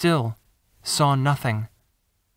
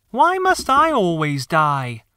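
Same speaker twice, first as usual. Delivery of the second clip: slow eerie corpse voice, a little louder; corpse speaking; 3 semitones higher, 4 dB louder, slower than usual. Acted. Boy playing a corpse, slow eerie voice. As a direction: rise from the dead and drawl it slowly. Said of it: "The corpse spoke".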